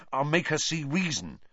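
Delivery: high, loud rising excitement; ecstatic. A narrator's reading. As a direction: rave about it with glee. Wood carried away with excitement.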